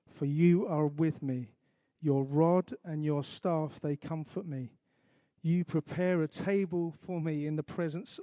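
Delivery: slow, measured scripture reading; unhurried congregational recital; psalm recitation. Acted. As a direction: recite it slowly, phrase by phrase with pauses.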